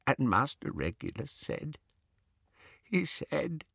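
soft, muffled, faltering recollection; rocking elf stalling before the painful part. A narrator's reading. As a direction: hesitate as the memory hurts. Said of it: "his voice was muffled".

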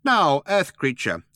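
high, slow little mouse address; businesslike mouse. A narrator's reading. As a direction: address a human slowly as a high-voiced mouse. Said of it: "Benji moved forward to address Arthur".

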